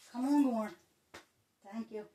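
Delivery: sharp call to get the cat to stop. Real, not acted. Owner calling her acting-up cat, loud call.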